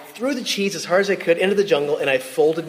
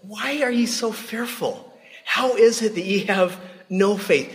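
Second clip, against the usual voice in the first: pleading gentle voice; 5 semitones higher than usual. Retold or imitated. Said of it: "he might have the same conversation with us".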